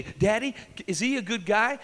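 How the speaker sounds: lightly voiced daughter; girl asking daddy. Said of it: "Then you go say".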